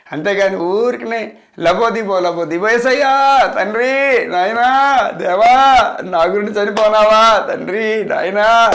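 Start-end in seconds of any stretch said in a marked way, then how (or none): 2.7-8.7 mock wailing prayer. Preacher mocking the congregation's tearful wailing, loud and drawn-out. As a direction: mimic the crying believers who call out to God. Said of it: "ఆ ఏడుపులు వద్దు".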